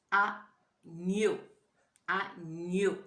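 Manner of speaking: "agneau" held, gn very audible; test word. Shown as a demonstration. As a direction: give the word slowly to the class. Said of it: "Est-ce que dans agneau".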